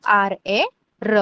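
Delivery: आर ए र in spaced-out beats; spelled-out pronunciation. Shown as a demonstration. Teacher repeating how to pronounce र, spelled out slowly. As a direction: slowly spell आर, ए, then sound र. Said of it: "र को कैसे pronounce करना है".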